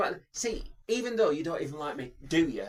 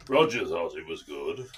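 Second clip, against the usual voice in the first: very low, put-on suave Bond voice; Roger Moore impression; 10 semitones lower than usual. Offering co-host his Bond impressions, low suave voice. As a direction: drop right down into the old Bond actor. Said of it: "I can do, uh, Roger".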